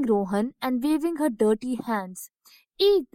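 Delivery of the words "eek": mock shriek. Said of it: "Rohan exclaimed".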